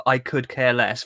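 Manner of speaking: slow, deliberate wrong phrasing; wrong version. Shown as a demonstration. Contrasting the American version, slowly. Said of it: "versus what it should be".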